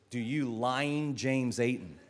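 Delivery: slow, lightly acted wedding officiant; a hint of solemn ceremony voice. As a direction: draw it out like reading wedding vows. Imagined officiant at son's wedding.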